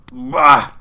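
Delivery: put-on grumpy old miser, loud dismissive bah; loud scoff. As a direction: spit it out loud and scornful. Scrooge scoffs at nephew.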